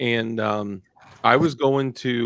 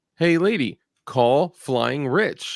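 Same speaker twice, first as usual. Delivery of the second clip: slow, deliberate, spelled-out put-on voice; 4 semitones higher than usual. Retelling asking the phone assistant again to call someone: imitating saying it louder. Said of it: "And I say it, like, louder".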